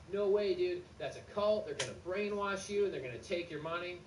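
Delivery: a lightly done alarmed Steven; alarmed friend. Retold or imitated. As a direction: warn like a panicked friend. Friend Steven warns, higher voice.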